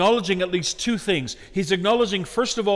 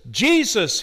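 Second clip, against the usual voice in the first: raised, louder cry to Jesus; calling out; 6 semitones higher, 5 dB louder than usual. Acted. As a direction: call out for help, higher and louder. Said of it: "He called out to Jesus".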